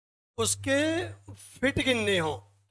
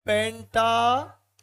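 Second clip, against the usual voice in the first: पेंटामीटर drawn out in two parts, पेंटा, then मीटर; slow, split word; slower than usual. Shown as a demonstration. Teacher repeating the term for students, पेंटामीटर slow and split. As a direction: stretch पेंटामीटर slowly, pausing before मीटर. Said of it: "क्या कहलाएगा?".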